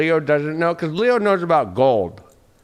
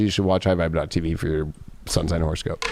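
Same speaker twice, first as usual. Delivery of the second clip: plug read; 10 semitones lower, 6 dB quieter than usual. Pretend. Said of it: "That was a nice plug right there".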